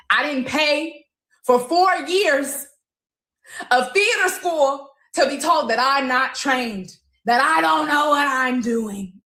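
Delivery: slow, high-pitched indignation; indignant. Real, not acted. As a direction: stretch it out in offended protest, pitched high. Indignant at being called untrained.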